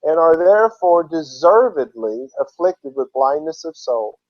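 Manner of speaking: emphatic, measured reading of a solemn address; deliberate, declamatory read-aloud; formal oratory reading. Acted. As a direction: read it out like a formal exhortation, stressing key words.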